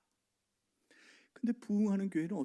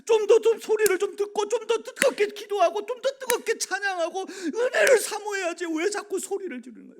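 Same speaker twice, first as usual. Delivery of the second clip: loud, high, near-tearful protest; anguished inner outcry; 12 semitones higher, 12 dB louder than usual. Retold or imitated. Pastor's heart crying out against turning the sound down, tearful shout. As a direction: pour out heartbroken frustration, voice cracking. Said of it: "막 제 마음은 막 너무너무 안타까운 거야".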